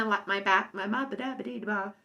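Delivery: stumbling into nonsense syllables; tongue-tied. Real, not acted. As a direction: trip over the words and babble on. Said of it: "Can't even talk".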